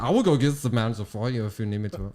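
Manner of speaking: imitated German-accented English; retold in a comic German accent; mock German accent. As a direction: put on a helpful German's accent. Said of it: "opening an authentic German restaurant".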